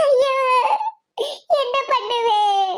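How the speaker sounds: slow, drawn-out moan of despair; tearful lament. Acted. Old woman blaming herself for the trouble, tearful lament. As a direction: wail it helplessly, stretching the last word. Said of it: "அழுதுகிட்டு இருக்காங்க".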